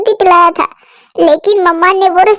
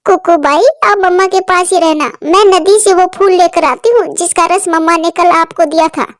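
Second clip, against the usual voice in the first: a touch of alarm, higher, rushed; worried girl calling her brother; panicked girl; 4 semitones higher than usual. Acted. Girl chick frightened her mother won't wake. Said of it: "Chinki घबरा जाती है".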